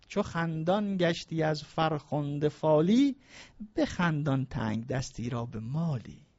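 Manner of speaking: slow, measured verse recital; poetry recitation. Acted. Preacher reciting Nezami's couplet to the congregation, slow and measured. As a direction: savor each word of the couplet.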